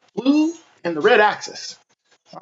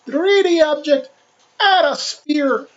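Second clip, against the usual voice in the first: cartoony voice; 3 semitones higher than usual. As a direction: talk like a cartoon character. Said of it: "I'm gonna use a cartoony voice".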